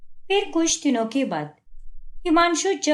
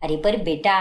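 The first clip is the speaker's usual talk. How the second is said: mother's voice; 8 semitones lower than usual. Acted. Mother interrupts the son.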